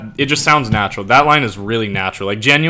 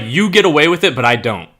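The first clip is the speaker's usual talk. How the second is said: high, loud mock grumble; high, loud mock complaint; 6 semitones higher, 7 dB louder than usual. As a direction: whine it like an unfair complaint. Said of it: "It's like".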